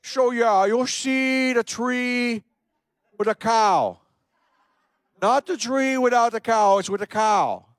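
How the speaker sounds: high, loud imitation of a German boss; mock-heavy German accent, words drawn out. German boss giving Roy landmarks, rough German accent. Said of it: "It's not the best German accent".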